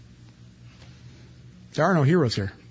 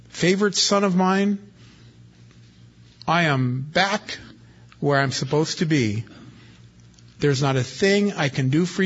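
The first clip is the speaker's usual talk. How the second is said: grieving father Isaac; 3 semitones higher than usual. Acted. Isaac speaks to weeping Esau.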